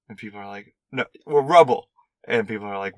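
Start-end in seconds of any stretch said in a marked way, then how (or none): 0.9-1.9 a hint of mimicked Cockney, pitched up; Cockney accent. Podcaster retelling a movie line, light mock Cockney. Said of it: "The Cockney accent".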